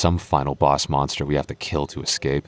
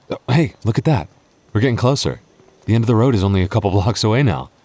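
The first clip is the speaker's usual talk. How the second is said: excited; 4 semitones higher, 3 dB louder, faster than usual. Acted. Spotting the end of the road.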